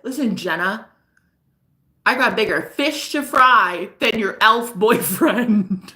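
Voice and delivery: measured, slow imitation of him; imitating boyfriend's delivery. Girlfriend quoting her dismissive boyfriend, slow imitation. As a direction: mimic him, slowly and deliberately. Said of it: "this is how he said it".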